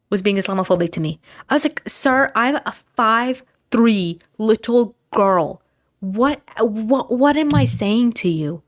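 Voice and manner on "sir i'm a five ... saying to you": incredulous retort. Retold or imitated. Retorting to the man at mall.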